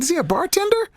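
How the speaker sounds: grandma's question. Retold or imitated. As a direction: mimic the sweet old grandma asking. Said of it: "She said".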